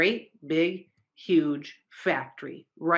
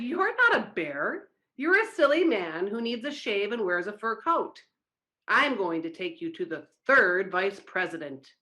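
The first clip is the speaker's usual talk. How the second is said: angry; 2 semitones higher than usual. Acted. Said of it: "was very mad too".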